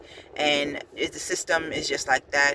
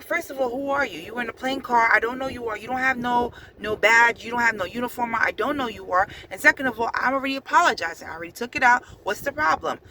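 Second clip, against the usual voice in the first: indignant comeback; 6 semitones higher, faster than usual. Retold or imitated. She argues back at guard.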